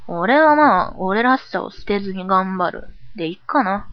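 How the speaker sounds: a hint of brusque cool; understated, offhand boyish delivery; lightly curt boyish persona. Cool persona stating a resolution, mildly brusque. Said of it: "ぶっきらぼうになってるだけじゃん".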